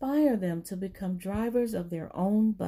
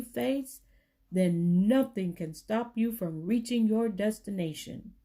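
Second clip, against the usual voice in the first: put-on reading to children. Narrator reads George's message to children, encouraging. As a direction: read it like a pep talk to kids.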